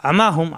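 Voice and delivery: আমা হুম with the first আ squeezed in the throat; pressed throat Ayn. Shown as a demonstration. Teacher modelling the word for learners, throat-pressed Ayn. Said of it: "আ কণ্ঠনালীতে চাপ দিয়ে".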